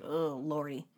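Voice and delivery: low, soft mock groan of dismay; weary exasperation. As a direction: imitate a leader losing patience. Voices the leader's weary reaction.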